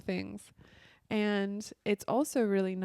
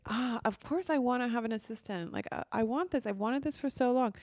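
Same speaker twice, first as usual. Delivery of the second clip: higher pitched, exasperated wanting; frustrated want; 4 semitones higher than usual. Shown as a demonstration. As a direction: sound fed up with not having it. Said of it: "that is a very frustrated vibration".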